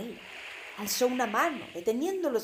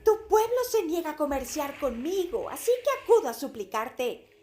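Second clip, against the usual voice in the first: súplica; 5 semitones higher, 5 dB louder than usual. Acted. Súplica a la criatura.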